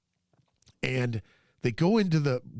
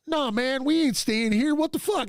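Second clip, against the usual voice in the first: higher, indignant mock protest; mock outrage; 10 semitones higher than usual. Friends refusing to stay in the cluttered room, higher mock outrage. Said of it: "these guys are going".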